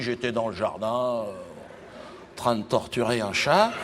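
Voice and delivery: low, very slow, matter-of-fact; deadpan Jean-Marie. Retold or imitated. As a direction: drop it calm and slow like nothing's odd. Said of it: "Il me dit".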